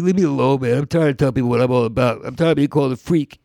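mild mock-tearful pleading; half-hearted fake crying. Hustler conning a client, mildly fake tearful. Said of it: "I would fake cry".

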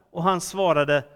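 animated, emphatic Bible reading; scripture reading. A narrator's reading. Preacher reads young Samuel's night calling to the congregation, animated scripture reading. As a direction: read the story out clearly with dramatic pauses.

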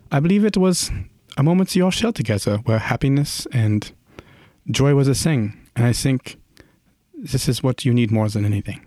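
lightly put-on voice, starting high and settling; earnest character. Adventurer presenting the painting to client, earnest. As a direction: offer it gently as a heartfelt belief.

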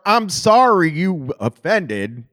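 "you" and "offended" rushed together, "were" dropped; fake apology. Shown as a demonstration. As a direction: say "I'm sorry you offended" slowly, swallowing "were". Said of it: "de-emphasize the sound of "you were".

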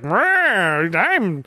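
mock-frightened actor, voice jumping up on hey; imitating a badly acted fright, drawn out; bad scared acting. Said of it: "he has to act frightened".

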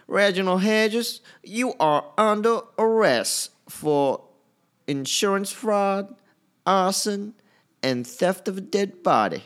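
very high, slow, hammed-up Southern accent; bad American South accent. Shown as a demonstration. Podcaster practises the arrest line in an exaggerated American South accent. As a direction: stretch out each charge in an exaggerated Southern voice. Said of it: "American South accent".

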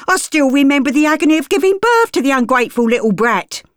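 milking the sympathy; cockney woman. Acted. Gert plays the suffering mother to Sir Arthur.

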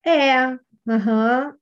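token, unconvinced assent; half-hearted agreement. Retold or imitated. Child answers coach while disagreeing with mother, half-hearted agreement. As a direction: agree along without meaning it. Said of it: "tipo, concordando com a mãe".

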